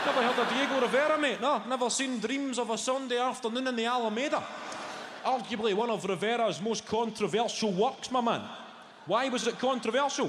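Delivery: pleased with himself, rattling off art facts high and fast; smug showing off. Retold or imitated. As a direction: let them have both barrels, gloating. Show-off lecturing the guide.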